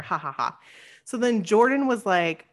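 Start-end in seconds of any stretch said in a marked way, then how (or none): 0.0-0.6 low, soft spoken ha-ha-ha; imitated laughter. Recalling a shared joke, imitated laughter. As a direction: token mock laugh, trailing down quietly. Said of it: "we laughed".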